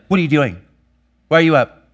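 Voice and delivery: father snapping at his daughter for getting up early; irritated snap. Retold or imitated. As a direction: snap at the child for interrupting. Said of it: "I'd be like".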